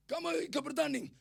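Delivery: high, loud question; calling out. Retold or imitated. Preacher asking the children if they compete, loud high call. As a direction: call it across to the kids.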